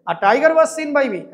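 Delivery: slow dictation. Shown as a demonstration. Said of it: "নিজে দেখেছি।".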